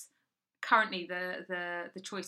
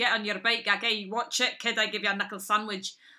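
put-on raised voice in a Scottish accent; 7 dB louder than usual. Recalling a late father who claimed scottish roots, imitating father's scottish accent. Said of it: "and he had a Scottish accent".

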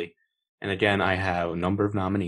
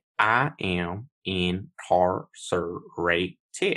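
weird, high-pitched put-on West Virginia American accent. Recalling an actor's role in another film: Daniel Craig's high-pitched West Virginian accent. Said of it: "a high-pitched West Virginian accent".

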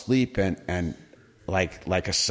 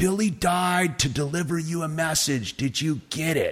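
high, insistent screaming; 7 semitones higher than usual. Retelling his sponsor's phone call about Billy's death, imitating a scream. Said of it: "He's screaming at me".

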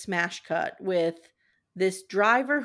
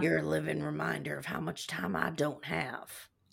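imitated Southern American accent; 6 semitones lower, 7 dB quieter than usual. Quoting John's freaked-out line, as John with a Southern accent. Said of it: "I'm putting the southern accent southern, into it".

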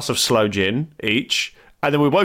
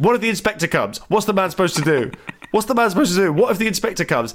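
play-acted, insistent, hammering, repeated shouting; 7 semitones higher than usual. Retelling how a bus driver confronted the speaker: imitating a driver shouting. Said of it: "basically starts shouting at me".

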